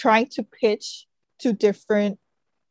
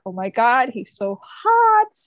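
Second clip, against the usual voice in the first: smitten. Retold or imitated. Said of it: "And she's like".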